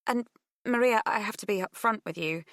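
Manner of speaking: tentative on the phone; nervous young woman. Acted. Pip on the phone.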